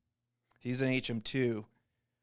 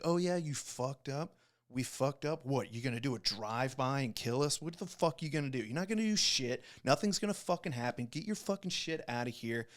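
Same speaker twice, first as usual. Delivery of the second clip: heated mocking retort; 3 semitones higher than usual. Retelling his comeback to the vaping rival, mock scornful. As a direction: throw his words back at him, jeering.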